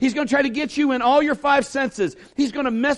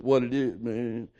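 cool guy cruising; 11 semitones lower, 7 dB quieter, slower than usual. Retold or imitated. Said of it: "how bad we think we are".

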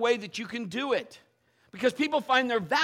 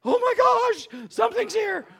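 sudden loud, high gasping cry of alarm; startled wake-up; 12 semitones higher, 9 dB louder than usual. Retold or imitated. Waking up startled at night.

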